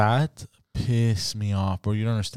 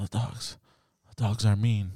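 soft imitated dream mumble; hushed, drowsy reenactment; sleep talking; 3 semitones lower, 7 dB quieter than usual. Dreaming boyfriend explaining the dogs to girlfriend, sleepy murmur. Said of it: "I'm dreaming".

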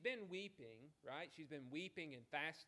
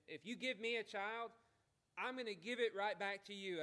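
incredulous restating of the prayer; 5 semitones higher, 6 dB louder than usual. Shown as a demonstration. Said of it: "that's kind of an odd prayer".

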